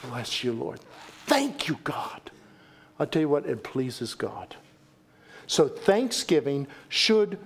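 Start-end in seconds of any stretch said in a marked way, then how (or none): 0.1-2.3 soft prayer. Shown as a demonstration. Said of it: "When we say".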